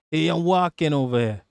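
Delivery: playful put-on Italian accent; mock Italian accent. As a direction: throw in a stock Italian-caricature line. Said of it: "we got an Italian in the house".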